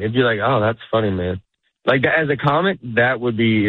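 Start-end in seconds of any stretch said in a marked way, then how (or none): 0.4-1.4 measured "that's funny", dropping low at the end; unhurried, understated appreciation; sincere comic's approval. Shown as a demonstration. One comic to another, understated sincere approval. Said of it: "And look, in this tone".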